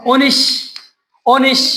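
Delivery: "অনিশ" cut off on a held sh sound; partial word sounded out. Shown as a demonstration. Teacher sounding out a spelling for students, word broken off. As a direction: say "অনিশ" alone, stopping on the hiss of sh. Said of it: "সেখানে কি অনুস্বরের উচ্চারণ হচ্ছে".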